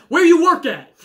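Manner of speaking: amused, teasing echo of a viewer's odd question; laughing mock quote. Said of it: "Juan just said".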